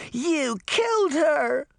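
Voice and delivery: loud high wail; grief-stricken child; despairing cry. A narrator's reading. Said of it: "cried in despair".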